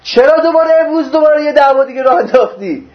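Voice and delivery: exasperated questioning, voiced for another; acted reproach. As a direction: take someone to task in a retold quote. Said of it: "گفت".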